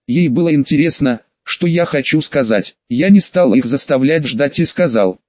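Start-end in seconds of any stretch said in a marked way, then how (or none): none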